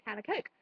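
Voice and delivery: "Coke" with its long o; "Coke" rhyming with "oak"; intended Coke. Shown as a demonstration. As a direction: say "Coke" clearly with a long vowel. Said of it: "instead of".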